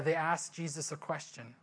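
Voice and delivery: ordinary talk, nothing marked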